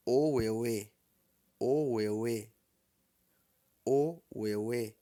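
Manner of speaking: "Oueuê" with low O and level middle euê; low-mid Yoruba tones. Shown as a demonstration. Teacher models September for students, low-mid tones. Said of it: "O O é baixo e o euê é médio".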